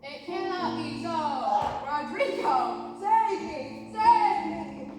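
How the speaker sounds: stiff acting. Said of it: "No, no, no. Do it like this".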